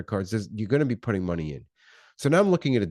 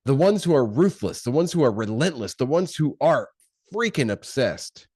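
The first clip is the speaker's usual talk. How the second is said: punchy, louder rising build, slowing on freaking obsessed; intense hype intro; 5 semitones higher, 4 dB louder than usual. Acted. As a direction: sell it like a motivational opener. Hype intro to business vlog.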